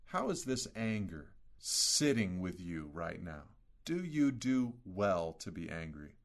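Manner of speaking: quiet, tender voice of God probing softly; gentle questioning. Pretend. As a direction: ask it the way a caring father would. Preacher voices God questioning Jonah.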